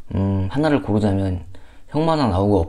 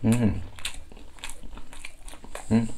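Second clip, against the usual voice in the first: humming with closed lips; chewing while savoring food; mouth full, chewing; 10 dB quieter, slower than usual. Real, not acted. Seen 0: Lips closed, chewing dumpling bitten at -5; "mm" said while chewing.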